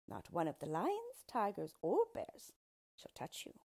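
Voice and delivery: lightly voiced dwarf striking a bargain; eager storybook dwarf. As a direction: savour the offer, a touch theatrical.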